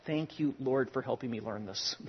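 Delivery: softly under his breath, a quick thank-you prayer; quiet grateful aside. Retold or imitated. Pastor recalling an insurance call, a soft murmured prayer. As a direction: murmur it to the Lord mid-call.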